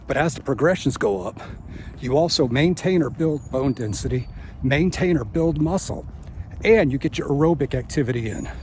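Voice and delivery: talking through a tooth gap; missing front teeth. Real, not acted. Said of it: "Sorry for the missing tooth".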